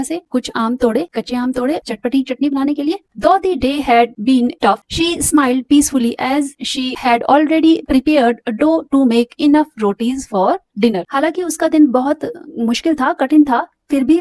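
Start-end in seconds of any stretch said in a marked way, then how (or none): 3.2-11.0 slow, careful reading to a class; measured textbook reading; slow read-aloud. Acted. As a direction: read it out slowly for students. Teacher reads story aloud.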